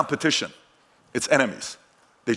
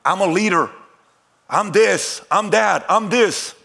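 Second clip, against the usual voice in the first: higher-pitched mock pep talk; typical affirmations; 6 semitones higher, 3 dB louder, slower than usual. Speaker imitating typical self-affirmations, in raised pep-talk delivery. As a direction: chant each affirmation as a short, lifted burst. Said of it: "it goes like this".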